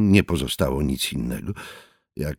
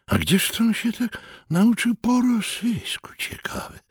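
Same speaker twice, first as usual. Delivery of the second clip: grumpy inner thought. A narrator's reading. Poet's grumpy private thought.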